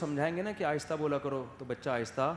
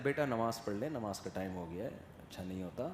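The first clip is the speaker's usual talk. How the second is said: gentle father; 6 semitones lower, 8 dB quieter than usual. Retold or imitated. Father gently urging son.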